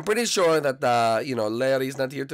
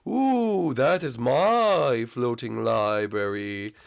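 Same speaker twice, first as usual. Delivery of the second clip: drawn-out ghost voice; 3 semitones lower, much slower than usual. Acted. Ghost Blimpy showing off library.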